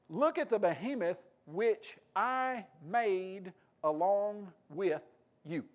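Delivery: slow, solemn voice of God; slow, weighty divine command; God speaking. Acted. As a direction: read it slowly, as God commanding Job. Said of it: "What does he mean when he said".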